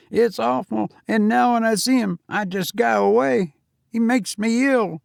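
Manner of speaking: put-on a nervous young servant answering his master; young Cockney servant. Thomas disgusted.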